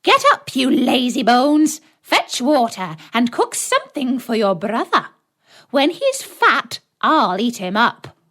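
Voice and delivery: put-on loud, high witch yelling at the girl; witch crying out. A narrator's reading. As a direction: bark the orders, shrill and loud. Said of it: "and cried".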